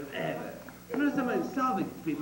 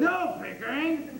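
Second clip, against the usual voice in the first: loud and high, slowed "No"; sharp objection; 9 semitones higher, 6 dB louder, slower than usual. Acted. Higgins stopping Pickering's interruption sharply. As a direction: cut him off hard.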